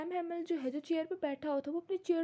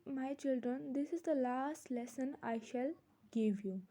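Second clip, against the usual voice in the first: lower, slow, gentle teacher's voice; 3 semitones lower, much slower than usual. Acted. Teacher tells the children of their last lesson, gentle. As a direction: read it gently and unhurried, pitched down. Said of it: "प्यारी सी tone में वो बोलता है".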